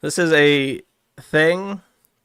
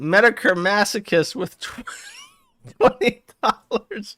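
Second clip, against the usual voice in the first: much higher, laughing through the words; laughing mock scream; 6 semitones higher than usual. Chatter screaming the tip message at Worski. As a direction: shriek it while cracking up. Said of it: "P P P screams at him".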